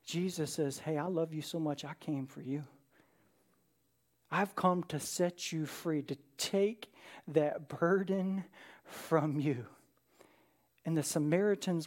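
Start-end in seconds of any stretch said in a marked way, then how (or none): 0.8-9.6 soft, slow and gentle, like comforting someone ashamed; tender reassurance. Retold or imitated. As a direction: lower and quieter, letting each promise land. Jesus comforting the ashamed woman.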